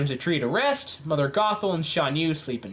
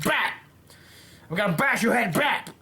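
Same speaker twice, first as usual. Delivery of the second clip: lightly voiced Scar; 3 semitones higher than usual. Scar bashing with a mace, mock attack voice. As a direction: punch out each blow as a sound effect. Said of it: "just went like".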